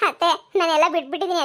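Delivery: light laughter under the words; laughing. Acted. Paddu brushes off mother-in-law's worry, laughing. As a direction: say it through a small laugh.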